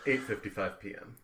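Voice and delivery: low, soft time stamp; quiet, precise doctor impression; Talbot. Shown as a demonstration. Castmate as Talbot logging the time, low and hushed. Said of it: "now start with Talbot".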